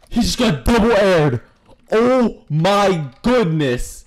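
loud, high hype call; loud excited cheering; hype yelling. Real, not acted. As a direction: cheer the kill like a caster. Hype over kill, loud.

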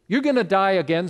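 blunt warning. Retold or imitated. Jesus warns the Samaritan.

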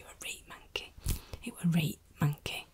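ordinary talk, nothing marked

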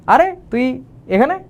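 high, slow amazed exclamation; meeting an old friend after years, amazed; surprised. Shown as a demonstration. Teacher greets an old friend, surprised and high. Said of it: "তুমি অবাক হইছো".

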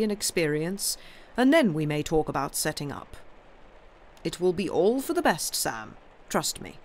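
lightly voiced uncle, emphatic; firm advising uncle. Uncle reassuring Sam about waiting, firm. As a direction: lay out a sensible plan.

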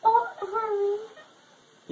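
slow, tearful, drawn out; weepy. Real, not acted. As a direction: cry it out, touched. Sedated, emotional over milkshake.

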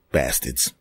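low, soft muttered insult; muttered under breath. Real, not acted. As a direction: mutter it to yourself.

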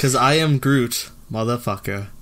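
slow deadpan line; monotone reading. Shown as a demonstration. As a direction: deliver it slow and flat. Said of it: "my monotone, uh, voice".

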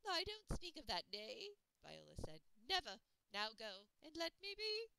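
high, loud furious refusal; angry old woman. Acted. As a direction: shut it down, raging. Old woman shuts down question.

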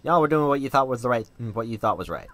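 folksy Wild West cowboy telling his tale; a friendly old cowpoke explaining everything. Acted. Joe tells his whole story.

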